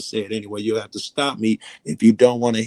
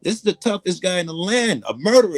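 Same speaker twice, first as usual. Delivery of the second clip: high shrieking mock scream, much higher and louder; imitating a panicked scream; 12 semitones higher, 5 dB louder than usual. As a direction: shriek it like he's been set on fire. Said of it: "He started screaming like he was on fire".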